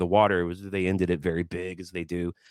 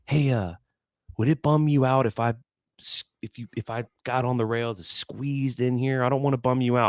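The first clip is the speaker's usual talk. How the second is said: courteous; 4 semitones higher than usual. Retold or imitated. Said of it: "I'm being, like, really courteous".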